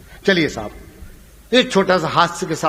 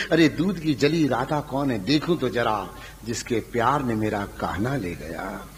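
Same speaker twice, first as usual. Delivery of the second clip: lower, softer wondering queen; Rukmini musing; 7 semitones lower, 6 dB quieter than usual. Acted. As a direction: muse jealously, quietly. Rukmini wonders about Radha.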